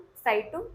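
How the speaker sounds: "जाइटुंग" with आई after the first consonant; model pronunciation. Shown as a demonstration. Teacher applies the sounds just explained, model pronunciation. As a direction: say "जाइटुंग" as a lone model word. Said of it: "आई वाला sound और जेड का sound".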